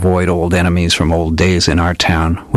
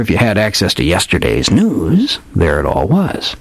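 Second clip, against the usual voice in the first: put-on hardboiled old detective; 2 semitones higher than usual. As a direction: play the old gumshoe spinning a dramatic yarn. Old detective tells his tale.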